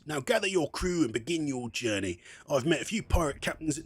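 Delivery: put-on pirate accent slipping into Brummy. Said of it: "like, Brummy or something".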